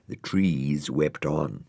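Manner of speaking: ordinary delivery, nothing marked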